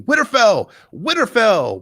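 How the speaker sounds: high, loud war cry of Winterfell; girl yelling her home's name in battle; battle shout. A narrator's reading. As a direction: shout it as a rallying cry over the fighting.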